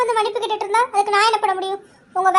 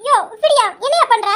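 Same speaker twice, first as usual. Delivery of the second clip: sharp, high startled cry; startled outburst; 3 semitones higher, 4 dB louder than usual. Acted. Wife startled by husband's touch, high startled outburst. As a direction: jump back startled, voice up.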